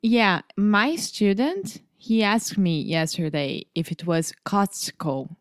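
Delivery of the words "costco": "Costco" with the T sounded; T pronounced. Retold or imitated. Student asked about the spelling, "Costco" with the T pronounced. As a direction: say "Costco" slowly, keeping the T in the middle. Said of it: "because of the T".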